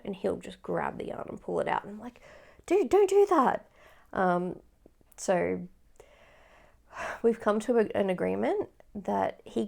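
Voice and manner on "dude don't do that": sharp high loud "Dude, don't do that"; scolding the cat. Retold or imitated. Scolding her cat for stealing yarn, loud and high. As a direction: tell the cat off, half-joking.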